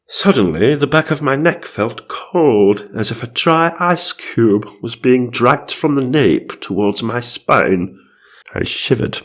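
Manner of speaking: hammed-up spooky storytelling; mock-suspenseful reading; dramatic ghost narration. A narrator's reading. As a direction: draw out the eerie moment as a storyteller. Reads ghost story in character.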